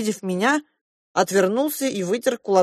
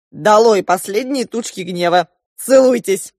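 loud, high cheerful commanding; 5 semitones higher, 6 dB louder than usual. A narrator's reading. Uncle Yura ordering the children to make up, loud and commanding. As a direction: boom it out like an order. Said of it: "приказал он".

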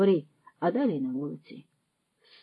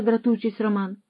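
usual speaking voice

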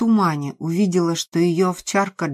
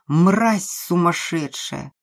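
slow, hissed contempt; furious insult; slower than usual. Acted. Nikolai turns on Maria with hatred, slow and furious. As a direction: spit the insult out.

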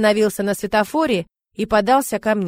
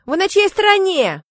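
indignant; 11 semitones higher, 4 dB louder than usual. A narrator's reading. Zina protests to her mother.

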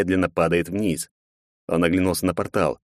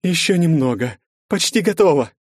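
louder, higher call of progress; a raised call, almost done; 10 semitones higher, 4 dB louder than usual. A narrator's reading. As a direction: shout it across the clearing. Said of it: "крикнула Олеса".

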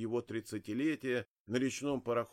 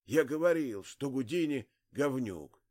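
forcing words out; 3 dB louder than usual. Acted. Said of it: "Старик силился выдавить из себя слова".

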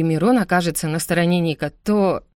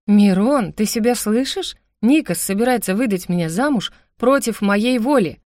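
higher, louder indignant protest; outraged aloud; 4 semitones higher, 3 dB louder than usual. Acted. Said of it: "возмутилась я в голос".

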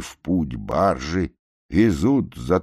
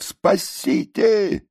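very high, slow drawn-out shout; shout for help; much slower than usual. A narrator's reading. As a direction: scream it long. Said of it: "снова кричат". (протяжный крик)

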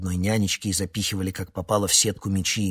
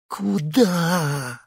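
испуганно; 11 semitones higher, 5 dB louder than usual. A narrator's reading. Испуганный вопрос.

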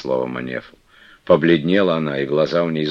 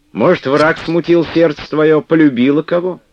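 ordinary delivery, nothing marked

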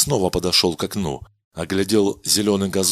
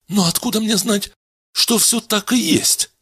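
much higher, uneasy questioning voice; a worried young man voice; doubting Kadena; 12 semitones higher than usual. Acted.

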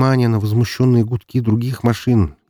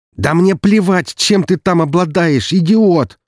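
high, loud slow furious yell; exploding; 11 semitones higher, 5 dB louder, slower than usual. Acted. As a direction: blow up at him, spitting each word. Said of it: "вновь взорвался его брат".

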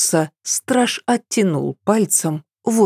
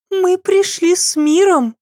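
conciliatory. A narrator's reading. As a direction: reassure them lightly. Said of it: "примирительно вскинула руки". (примирительно)

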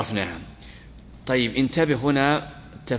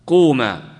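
loud command; 2 semitones higher, 7 dB louder, much slower than usual. Shown as a demonstration. Command to two, demo.

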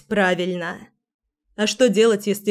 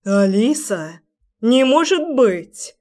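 joyful exclaim; 2 semitones higher, slower than usual. Acted. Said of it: "воскликнул".

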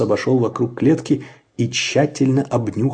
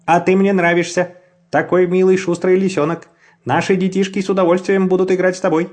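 man's voice; 6 semitones higher, 3 dB louder than usual. A narrator's reading. The man speaks to the fox.

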